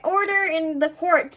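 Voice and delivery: high, loud courtroom command; commanding judge. Acted. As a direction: call the room to order as the judge. Judge calling the court to order.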